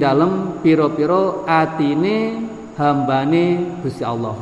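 slow, intoned reading of scripture with gloss; measured, drawn-out recitation; kitab recitation. Acted. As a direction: chant the text phrase by phrase. Reads the kitab with word-by-word gloss.

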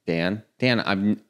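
exasperated at Dan. Retold or imitated. Speaker exasperated at buddy Dan over caller ID, mock outrage. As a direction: needle him for not checking caller ID. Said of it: "I'm like".

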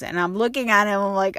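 ordinary delivery

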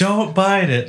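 high voice breaking into laughter; laughing high instruction. Retold or imitated. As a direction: laugh through the warning. The same instruction to an American.

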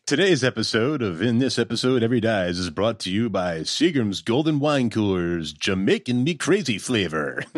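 lightly mock sponsor announcer; fake ad read. Podcaster faking a wine cooler advertisement, mock announcer read. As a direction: play at reading a sponsor spot. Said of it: "do a fake advertisement".

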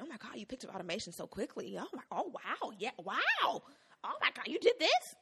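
high, gushing imitation of overblown praise; mock amazement. Imitating coworkers praising an intern, mock amazement.

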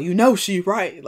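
mother's ghost speaking loudly. Retold or imitated. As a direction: boom it like a ghost. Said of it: "it was real loud".

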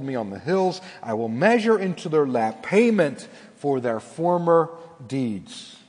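measured preacher reading a Bible passage; solemn pulpit reading of Scripture. Acted. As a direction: read the prophet's words with weight. Reads scripture aloud.

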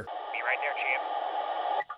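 crackly walkie-talkie reply; radio voice. Acted. Backup answering Clyde on the radio, muffled by static. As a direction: answer through static on a handset. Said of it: "come through on the radio".

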